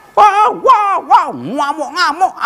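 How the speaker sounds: loud, slow, incredulous wah; exasperated exclaiming. Retold or imitated. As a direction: throw up your hands at the furious nurse. Retelling raging Dutch nurse.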